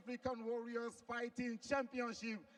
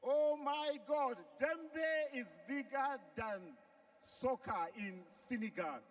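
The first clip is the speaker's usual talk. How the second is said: amazed; 4 semitones higher, slower than usual. Real, not acted. Host reacts to surprising fact.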